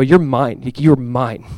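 lightly acted fatherly tenderness; tender claiming. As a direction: say it to your child, quietly sincere. Father speaking tenderly to his son.

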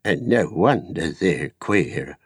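a lightly voiced gruff old neighbour; Daddy Two-Foot. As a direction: chime in with dark village wisdom. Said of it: "put in Daddy Two-Foot".

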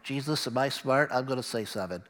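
lightly voiced kid seeking approval; eager kid. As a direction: play a keen pupil at the front of class. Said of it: "He's the kid at the front going".

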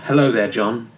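gentle Jesus. Acted. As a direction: greet him like a mild saviour. Jesus greets John.

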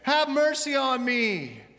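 high, loud cry, slowing on mercy. Acted. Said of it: "But he shouted all the more".

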